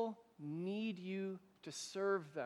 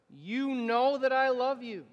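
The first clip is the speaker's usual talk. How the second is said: declared louder and higher; loud affirmation; 5 semitones higher, 7 dB louder than usual. Shown as a demonstration. Pastor and congregation answering Jesus, louder. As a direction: proclaim it with the congregation. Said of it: "say it out loud with me".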